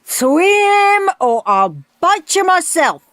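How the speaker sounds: high, loud, slow coach's snarl; snarled threat. A narrator's reading. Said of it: "snarled Sid".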